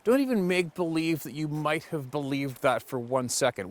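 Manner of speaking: slow, drawn-out contempt; deliberate exasperated lecture; slow scornful scolding. Acted. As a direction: lay it out slowly, dripping with scorn. Angry rant at a dumb claim.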